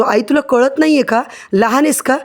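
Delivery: a touch of annoyance, pitch lifted; mildly irritated. Acted. Indra snaps at his mother, mildly irritated. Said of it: "लगेच इंद्रा आता चिडतो".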